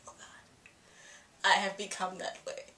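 breathy whispered oh God, hushed; whispered dismay. Retold or imitated. Fan whispering her shock at her own crush. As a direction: confess it under your breath in mock horror. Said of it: "I was kind of".

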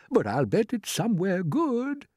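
high, hopeful lift; cheerful old grasshopper. A narrator's reading. Grasshopper reassuring the others, high and cheerful. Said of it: "trying to be cheerful".

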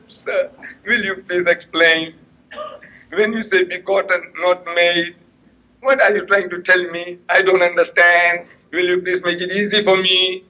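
slow, meek asking, as if eager to learn; mock humble. Asking an Englishman to explain, meek and humble. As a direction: play the innocent student, slowly. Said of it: "so humble".

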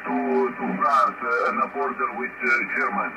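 distant voice over crackly radio; fading radio transmission with static; crackly military radio. Real, not acted. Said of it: "struggling at times there with the Q S B and Q R M".

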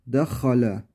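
dehale, ha hırıltılı; dehale'de ha gırtlaktan; throaty ha. Shown as a demonstration. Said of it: "Ha'nın hırıltısı duyulacak". (hırıltılı ha ile dehale)

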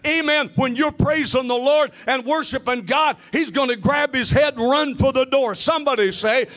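driving, insistent sermon delivery; impassioned preaching. Real, not acted. Preacher declaring Satan's defeat to the church, impassioned preaching. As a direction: preach it emphatically, lifting toward each climax.

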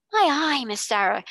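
high, loud gasp of amazement; gasped wonder. A narrator's reading. Servant girl gasping at Sarah's banquet hall. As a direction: burst out breathless with wonder. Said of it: "gasped Becky again".

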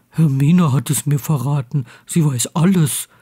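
lightly voiced proud friend; a touch of pride, pitched a little down; mildly proud. A narrator's reading. Ron reveals his source to Harry, mildly proud. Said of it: "sagte Ron stolz".

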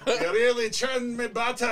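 badly faked Amish accent that turns Scottish; would-be Amish accent, oddly Scottish. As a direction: play an Amish flirt with a stray Scottish burr. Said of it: "don't know why this is Scottish accent".

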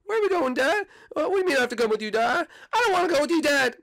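high, whiny boy cartoon voice; cartoon boy whining at his dad; Bart voice. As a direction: play the bratty kid son. Plays Bart for many lines.

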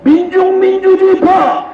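shouted protest rally oratory; roaring rallying speech. Real, not acted.

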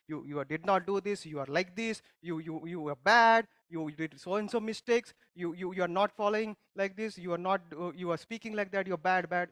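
blunt fault-finding, jabbing each you; harsh accusing. Acted. Preacher acting a truth-mode person scolding someone, accusing. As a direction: scold them like a judge listing their faults. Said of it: "Sometimes we are more saying the truth".

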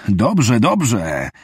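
urgently calling out agreement into the phone; called out. Acted. Lane calling into the phone to the kidnappers, urgent call. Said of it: "zawołał Lane".

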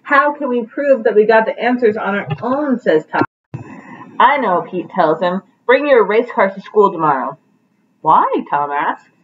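lively picture-book read-aloud with voiced characters; reading to children. Teacher reading Pete the Cat to her class, animated storytelling.

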